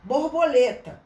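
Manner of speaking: loud teaching example word; example word called out. Shown as a demonstration. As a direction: announce Borboleta to the class. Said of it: "ele bota otá".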